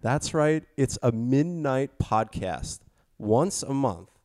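slow, drawn-out podcast host intro; show intro. Acted. Host welcomes listeners to the midnight podcast, slow announcer intro. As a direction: stretch out the welcome like a late-night host.

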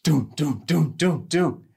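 imitated heavy footsteps. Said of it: "heard a louder noise".

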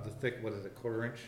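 distant, off-mic voice; speaking away from the microphone; far from mic. Real, not acted. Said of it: "You're far away from the mic again".

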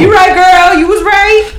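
high, loud hammed-up concession; emphatic agreement. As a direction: cry out in mock-excited agreement. Retold enthusiastic agreement with mother.

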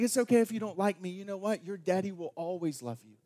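a hint of a gentle daddy reassuring his girl; father reassuring his daughter Ella, tender. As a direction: soften into a father's promise. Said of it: "I'm like".

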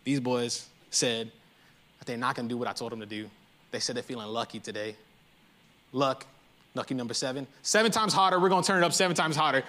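low, hushed king plotting with his guards; scheming king. Retold or imitated. Nebuchadnezzar calls his guards, low and scheming. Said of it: "He's like".

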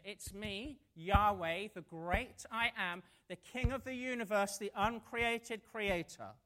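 building loud proclamation of God's names; majestic declaration. Acted. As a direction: proclaim it grandly. God declares himself.

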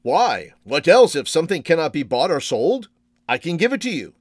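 put-on bright, eager old man voice; delighted old shopkeeper. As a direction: offer it with delight. Shopkeeper offers gift gladly.

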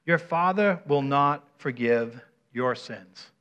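slow, measured Bible reading; scripture reading. Acted. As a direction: read the verse aloud slowly, spacing the phrases. Reads scripture aloud to congregation.

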